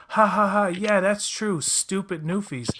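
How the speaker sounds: high mock guffaw into agreement; heckling audience friend. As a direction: imitate a sitcom audience member laughing along. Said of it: "Ellen's friend in the audience goes".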